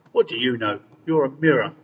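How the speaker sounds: loud, scornful roar. A narrator's reading. Queen roaring at the mirror she scorns. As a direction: bellow at the mirror. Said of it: "roared the Queen".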